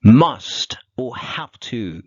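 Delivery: slow and loud, each word set apart; loud slow heading. Shown as a demonstration. Teacher introducing a new topic to students, loud and slow. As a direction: announce the topic to the class, slow and strong.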